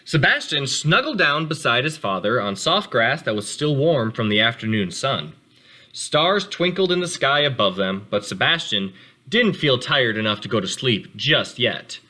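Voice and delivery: calm read-aloud storytelling voice; gentle storybook narration for kids; story narration. A narrator's reading. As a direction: read it to the class like a picture book. Teacher reads picture book to class.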